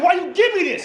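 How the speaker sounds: high, loud outraged question. Retold or imitated. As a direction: shriek it at the doctor, half laughing. Outraged at doctor.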